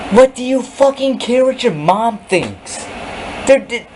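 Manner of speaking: exasperated scolding; angry, high-pitched rant. Real, not acted. Scolding absent friend about mom.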